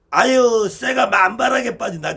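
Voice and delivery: loud, imitated Gyeongsang exclamation with "쇠" said for 혀; mock Gyeongsang accent. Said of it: "경상도 사람 발음이 안 좋잖아". (경상도 사투리 흉내, 크게)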